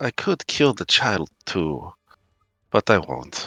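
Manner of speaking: muttered, hushed whisper under the breath. Player speaks as his character Killian, whispering under his breath. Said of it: "he's just gonna be whispering under his breath".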